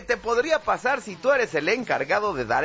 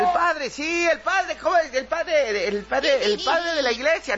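higher-pitched heckler helping out; prompting yell; 6 semitones higher than usual. Acted. Crowd member prompting the forgetful official, calling out. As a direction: call out hints from the crowd. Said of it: "y alguien te grita".

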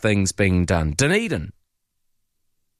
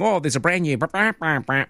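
higher-pitched mock boast trailing into blahs; 5 semitones higher than usual. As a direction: imitate someone gushing about news, pitched up. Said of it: "Don't go saying".

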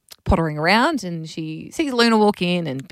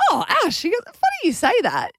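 teacher voice; 11 semitones higher than usual. Retold or imitated. Quoting the teacher.

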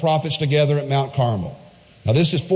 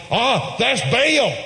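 mock worshipper; 9 semitones higher, slower than usual. Mimicking Baal worshippers' belief.

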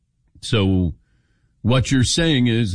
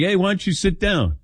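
higher-pitched casual invite; retold invitation; 8 semitones higher than usual. Host repeating Patrick's offer to John, high retold invite.

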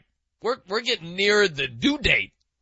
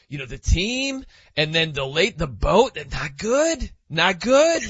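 Patty impression. Host imitates his colleague Patty's hesitant rambling, lightly voiced. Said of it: "here's my Patty impression".

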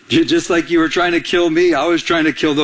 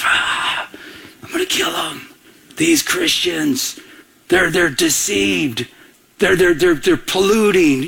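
angry persecutor; 3 semitones higher, slower than usual. Retold or imitated. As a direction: play the zealot plotting against the Christians. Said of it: "he was like this".

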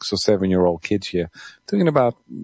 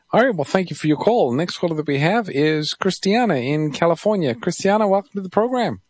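higher-pitched, lilting caller introduction; radio host; 9 semitones higher than usual. Real, not acted. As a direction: bring on the next caller, voice lifted. Host moves to next caller.

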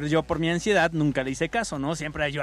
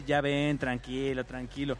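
soothing mom; 4 semitones lower, 5 dB quieter, slower than usual. Retold or imitated. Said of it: "Y mi mamá así de".

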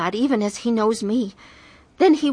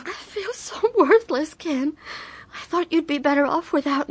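despairing; 7 semitones higher than usual. Acted. Confessing despair to husband.

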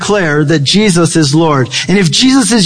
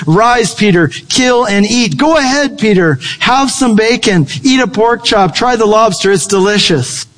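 coaxing voice of God; 3 semitones higher than usual. Retold or imitated. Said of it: "the voice says".

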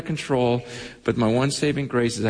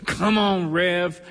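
higher, lightly mimicked call from the pews; congregant calling out; 4 semitones higher, slower than usual. Congregant urging on the preacher mid-sermon, calling out. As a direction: imitate a congregant's cheer, pitched higher. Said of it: "you'd hear someone in the congregation go".

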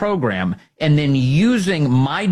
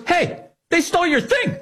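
imitating a friend. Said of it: "And he goes".

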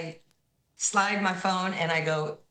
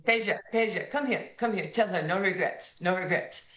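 lightly voiced Vlade calling Peja over, pitched up at first; imitating Vlade Divac; 2 semitones higher than usual. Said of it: "doing the fake cigarette thing that Vlade Divac was known".

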